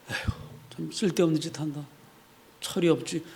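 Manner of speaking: very soft, weary sigh of scorn; sneering dismissal. Acted. Doubter scoffing at independence fighters, sneering mutter. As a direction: grumble dismissively under the breath. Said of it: "비아냥거리고 비방했을 거예요".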